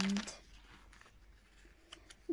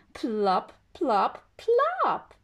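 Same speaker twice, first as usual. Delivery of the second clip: building plops; much slower than usual. Acted. Acorns falling.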